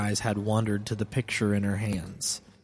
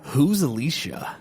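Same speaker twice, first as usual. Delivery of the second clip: pained confusion; 5 semitones higher than usual. Acted. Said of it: "my head was being torn apart".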